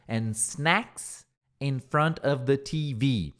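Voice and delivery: slow read-aloud. Shown as a demonstration. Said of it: "reads English sentence slowly".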